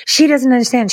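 retold yelling. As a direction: imitate a man yelling in exasperation, only mildly. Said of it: "he starts yelling at her".

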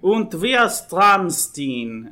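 mock German accent, loud and slow; hammy movie villain German accent; fake German accent. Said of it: "I'm not doing the fake German accent this time".

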